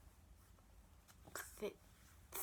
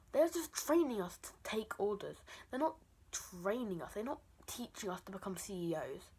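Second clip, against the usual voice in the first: angry rant; 5 dB louder than usual. Real, not acted. Ranting about bathroom rules.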